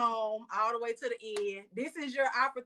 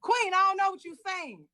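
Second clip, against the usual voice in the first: raised, louder mock New York accent; imitated New York accent, higher and punchier; attempted New York accent; 5 semitones higher, 5 dB louder than usual. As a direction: tease him with a put-on New York accent. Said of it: "a New York accent".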